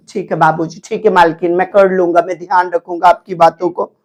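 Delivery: mildly voiced obedient tenant; meek tenant. Shown as a demonstration. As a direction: agree humbly with the landlady. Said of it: "देखिए क्या अभिनय".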